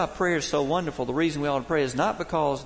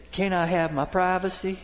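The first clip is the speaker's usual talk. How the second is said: higher-pitched, mock exasperated call; mild retold holler; 5 semitones higher than usual. Dad interrupted before his shower, mildly hollering at his child. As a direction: imitate a dad hollering, only half raised. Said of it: "he, he hollered out".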